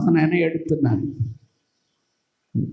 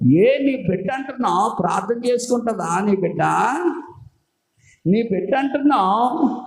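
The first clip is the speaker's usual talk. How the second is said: Satan taunting; 2 semitones higher than usual. Acted. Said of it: "సాతాను చెప్తాడు".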